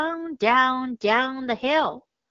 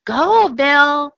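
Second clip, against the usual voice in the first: urging call; 3 semitones higher, 7 dB louder than usual. Acted. Kids urging dog.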